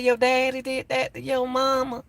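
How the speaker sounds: questioning adult. Retold or imitated. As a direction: ask the child gently in disbelief. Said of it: "Then she said".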